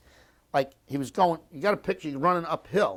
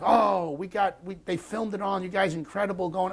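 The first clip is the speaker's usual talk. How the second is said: imitating the chaplain; 7 semitones higher than usual. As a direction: play the chaplain cheering the returning troops. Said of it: "the chaplain standing on sandbags".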